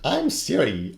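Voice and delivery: put-on failed Irish accent. Copying the Irish Siri voice, a failed Irish accent. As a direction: attempt an Irish lilt, then give up. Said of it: "I, no, I can't do Irish accents".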